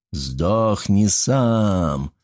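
slow fading echo of the shout. Acted. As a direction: stretch it out like a far echo. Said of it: "Принесло эхо".

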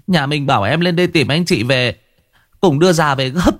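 vừa khóc vừa lắp bắp, giọng cao hẳn lên; cô em hớt hải báo tin dữ, nghẹn ngào khóc; tearful stammer. A narrator's reading. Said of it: "nó ôm mặt khóc lên tu tu". (giọng nghẹn ngào mếu máo, cao vút)

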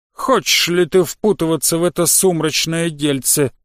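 slow, deliberate creature voice; slug creature voice. Acted. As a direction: weigh each word like an old slug. Slug character voiced slowly.

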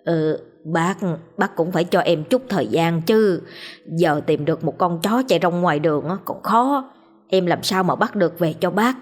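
put-on slurred pleading drunk; lightly slurred drunkard begging; drunken slur. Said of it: "cất cái giọng lè nhè".

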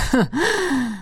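high gloating laugh of the mage; a short villain's laugh; mage's laugh. A narrator's reading. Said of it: "рассмеялся маг". (злорадный смех мага)

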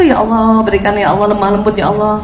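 a lightly voiced, pleading prayer demo; gentle mock prayer, ending on a laugh. Shown as a demonstration. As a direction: show them how to pray it, humbly. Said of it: "Ibu harus itu".

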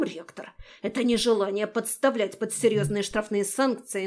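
cold, furious lecturing hiss; angry hiss. Acted. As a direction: threaten him line by line. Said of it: "гневно шипел".

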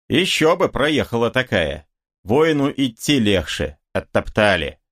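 usual speaking voice

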